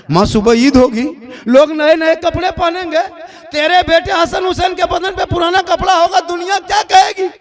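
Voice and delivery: lightly voiced child asking his mother; pleading child. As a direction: push the worry up like an anxious boy. Children ask about Eid clothes.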